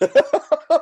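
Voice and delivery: sudden high squeaky hungover; hungover squeal. Real, not acted. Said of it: "I am so hungover right now".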